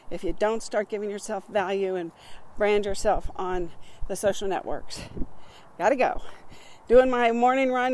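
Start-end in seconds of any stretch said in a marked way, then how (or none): 5.8-7.9 breathless, talking mid-jog; puffing between words while running; out of breath. Real, not acted. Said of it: "If I sound out of breath".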